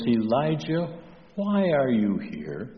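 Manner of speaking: soft, kindly question, lightly acted; gentle. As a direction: ask softly, imitating a merciful voice. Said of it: "God in his kindness, in his gentleness".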